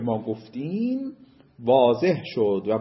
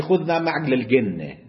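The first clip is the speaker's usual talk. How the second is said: Egyptian Arabic. Retold or imitated.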